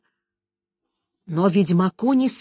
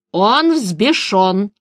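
he is enraged, said slowly with weight; slow repeat; much slower than usual. A narrator's reading. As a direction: spell it out slowly for the elf. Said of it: "повторил Креп". (медленно и весомо повторяет)

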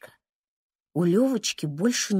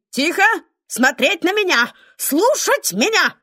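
higher, louder barked orders; commanding shout; 8 semitones higher, 4 dB louder than usual. Acted. Second grandmother silencing the panicking family, commanding shout. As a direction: take command of the room. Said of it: "Вторая бабушка кричит".

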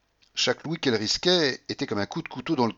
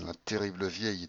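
softer, under the breath; muttered through teeth; 7 dB quieter than usual. A narrator's reading. De Griers complains secretly to the general, muttering. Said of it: "dit-il entre ses dents".

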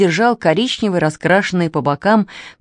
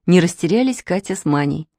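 plain reading voice

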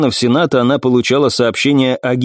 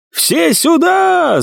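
high, drawn-out shout for backup; calling shout; much slower than usual. Acted. Second assassin calls for backup, high shout. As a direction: yell for everyone outside to come. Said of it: "закричал второй".

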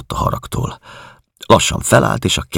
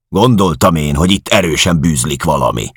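louder, higher contemptuous jab; sneering anger; 4 semitones higher, 4 dB louder than usual. Acted. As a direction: spit out the suspicion. Georg sneering in quarrel.

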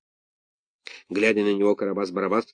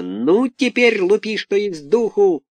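high, loud eager cry; excited shout; 10 semitones higher, 4 dB louder, slower than usual. A narrator's reading. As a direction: spur the rooster on. Buratino urges the rooster.

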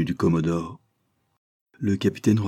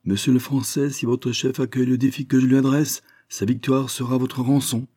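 higher, every word hammered apart; each word stressed; 6 semitones higher than usual. Acted. Commodore calling farewell to the prisoner, each word stressed. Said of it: "scandant chaque mot".

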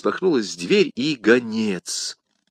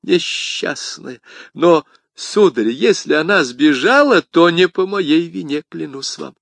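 higher, drawn-out pleading; anxious protest; 7 semitones higher, 5 dB louder than usual. Acted. Bonacieux swears to the commissar it wasn't him, protesting. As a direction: plead innocence, pitched up and emphatic. Frightened husband protests his innocence.

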